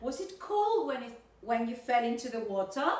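"cold" stressed, rising at the end on "water"; model intonation. Shown as a demonstration. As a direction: copy a textbook question, lifting "water" at the close. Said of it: "this is the correct intonation".

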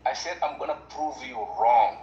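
spelling out prove slowly on request; careful say prove. Shown as a demonstration. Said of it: "say the word prove".

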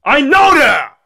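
high-pitched bratty yell; screaming. Acted. Kid told about the sleepover, screaming back. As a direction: snap back in a high kid's shout. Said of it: "Stop screaming".

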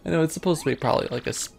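hammed-up Monty Python French knight; stupid French accent. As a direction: overdo a silly French accent. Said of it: "the stupid French voice from, um, Monty Python".

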